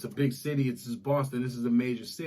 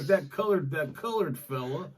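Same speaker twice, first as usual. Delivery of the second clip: put-on old school Italian. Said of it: "that's how old school Italians talk".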